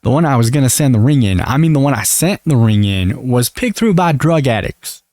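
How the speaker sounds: lightly mock Southern US accent. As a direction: retell it in a folksy Southern accent. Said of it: "I gave Lauren a southern accent".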